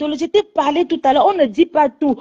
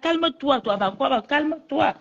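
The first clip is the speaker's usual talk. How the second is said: much softer, gentle; soft calming; 7 dB quieter, slower than usual. Real, not acted. Mother softly calms Bob at the end of the call. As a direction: hush him down gently.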